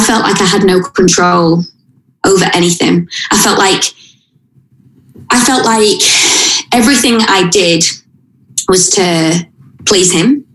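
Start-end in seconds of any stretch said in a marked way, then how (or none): 2.2-7.5 fighting back tears as she says it; tearful. Real, not acted. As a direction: voice catching on a real sob. Telling of abuse, voice breaks.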